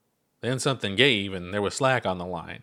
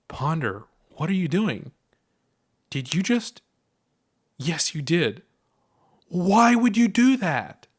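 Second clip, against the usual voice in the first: rising alarm, climbing higher to a slow cry; 8 semitones higher, 3 dB louder than usual. Acted. Chuck alarmed at Ponder climbing into her mouth, rising panic. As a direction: panic mounting as she realises.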